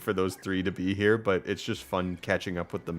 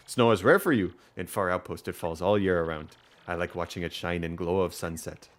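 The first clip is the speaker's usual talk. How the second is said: lightly voiced Russian villager; gentle attempt at a Russian accent; rough Russian accent; 2 semitones lower than usual. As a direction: villager musing in mild mock-Russian accent. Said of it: "I'll just make 'em sound different".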